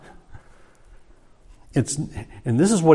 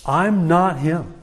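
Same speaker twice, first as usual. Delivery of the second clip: "I'm not him" said slowly, each word weighted; a deliberate, measured denial; firm slow denial; slower than usual. Retold or imitated. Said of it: "as strong as he can say it".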